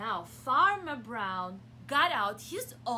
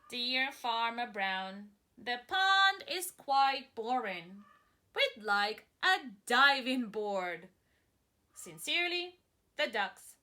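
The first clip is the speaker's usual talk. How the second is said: slow, formal reading; lightly voiced ducks' letter; 2 semitones lower, 4 dB louder, slower than usual. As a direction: read it as a cheeky request. Ducks' letter read aloud.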